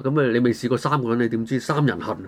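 ordinary talk

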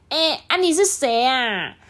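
put-on startled kid asking who; a little boy caught off guard; mild surprised question; surprised child. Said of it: "小瓜就说".

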